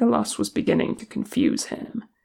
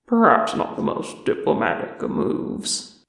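murmured; 3 semitones lower than usual. Acted. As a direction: say it under your breath. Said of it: "he murmured".

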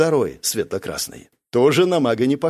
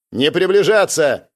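slow, loud warning; barked order; 3 semitones higher, 4 dB louder than usual. Acted. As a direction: bark the order. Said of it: "рявкнул я".

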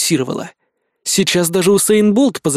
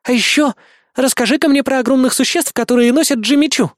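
put-on higher, cheeky young woman; teasing girl voice; 8 semitones higher than usual. A narrator's reading. Bismarck teases the narrator about giant creatures, cheeky.

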